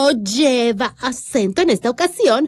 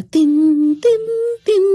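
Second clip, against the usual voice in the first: sung-out "tin" beats; vocal imitation of rhythm; 6 semitones higher, slower than usual. Radio host echoing a dance song, imitated beat. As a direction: tap out the beat with your voice.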